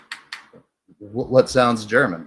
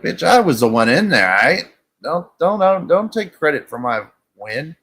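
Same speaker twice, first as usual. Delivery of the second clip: higher-pitched mock protest; indignant retort; 5 semitones higher than usual. Man retells snapping back at her for claiming his win, indignant.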